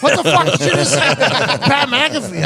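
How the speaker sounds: high, incredulous outburst; hammed-up shocked exclamation; mock disbelief. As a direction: react aghast, pitch shooting up. His shocked reaction at home.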